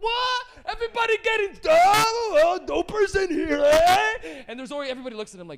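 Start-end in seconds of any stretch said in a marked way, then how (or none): 0.0-4.4 put-on very high, loud, slow, drawn-out drunk voice. Retelling a drunk guy barging into a room of people getting high: imitating a drunk guy. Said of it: "a drunk guy comes in and be like".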